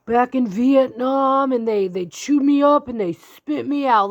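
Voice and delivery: put-on slow, loud drunk uncle rant. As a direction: ham up a drunk uncle at Thanksgiving. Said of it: "that uncle on Thanksgiving that's drunk".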